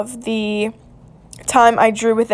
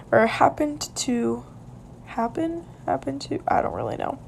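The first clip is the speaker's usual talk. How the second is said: muttering to herself; 2 semitones higher, 10 dB quieter than usual. Real, not acted. Muttering to herself over wording.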